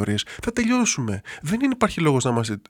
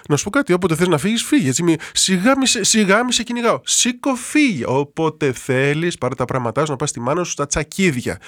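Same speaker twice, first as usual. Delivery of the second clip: mock angry wife; 3 semitones higher than usual. Priest imitating a wife telling her husband to leave, mock defiant. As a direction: dare him to leave, scornful.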